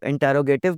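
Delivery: "इंटेरोगेटिव" as in-te-ro-GAY-tive; people's wrong "इंटेरोगेटिव", all syllables sounded; common mispronunciation. Retold or imitated. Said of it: "बहुत सारे लोग इसको".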